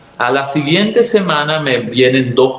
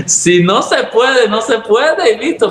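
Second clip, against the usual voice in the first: high excited protest; 10 semitones higher than usual. Retold or imitated. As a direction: insist it can't be done, pitched up. Se cita a sí misma. (protesta aguda y lenta)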